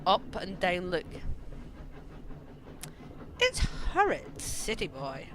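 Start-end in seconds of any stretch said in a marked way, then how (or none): 3.4-5.3 put-on rough-and-ready worker teasing a city boy; coal shoveler's voice. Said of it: "we can have this kind of voice".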